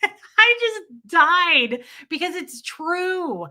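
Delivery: slow, high, laughing through the words; helpless laughter while telling it. Real, not acted. Wife telling her audience, cracking up. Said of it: "laughing at the memory".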